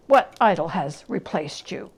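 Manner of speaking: put-on young Ebenezer pressing the girl; demanding young Ebenezer. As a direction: demand an answer. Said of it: "demanded young Ebenezer".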